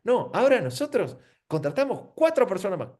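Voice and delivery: a hint of a bland company ad; mock ad pitch. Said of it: "te va a atacar diciendo".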